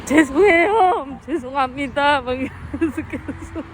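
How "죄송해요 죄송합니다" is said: tearful plea. Retold or imitated. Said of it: "눈물 막 줄줄 흘리면서".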